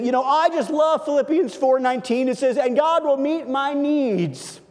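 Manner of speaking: a cheerful believer quoting half a verse, lightly sent up; mock churchgoer. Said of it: "we'll say something like this".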